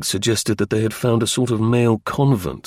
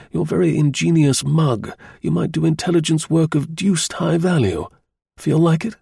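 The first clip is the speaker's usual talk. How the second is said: hearty colonel, higher pitch; military officer; 6 semitones higher than usual. A narrator's reading. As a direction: bluff officer making an offer. Colonel voiced by narrator.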